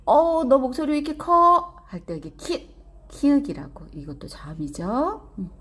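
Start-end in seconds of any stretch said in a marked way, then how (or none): 0.0-1.7 high, loud goblin complaint; acted loud, high-pitched outburst; startled goblin. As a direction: exclaim like a goblin shocked by the noise. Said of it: "도깨비가".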